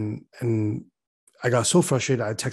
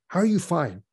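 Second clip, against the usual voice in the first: higher, disbelieving question; incredulous; 7 semitones higher than usual. Retold or imitated. To his unbothered partner, high incredulous question. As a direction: ask it high, can't believe it.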